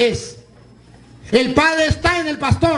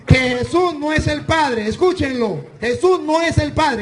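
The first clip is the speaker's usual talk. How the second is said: preacher's shout; 3 semitones higher than usual. Real, not acted. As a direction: hammer the point home to the crowd. Preacher stressing his key point.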